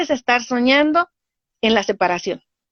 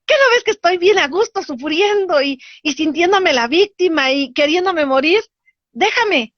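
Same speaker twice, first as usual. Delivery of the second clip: high, wailing sulky push-away; pitched-up mock whine of someone who wants to keep crying; whiny self-pitying victim; 7 semitones higher than usual. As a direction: shoo the helper off while wallowing. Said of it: "Y tú le dices".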